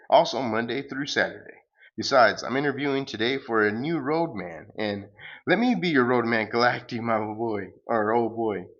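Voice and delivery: lightly booming villain pitch; cosmic salesman. Acted. Galacticus bragging about his franchise, light booming voice. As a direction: sell it like a grand space huckster.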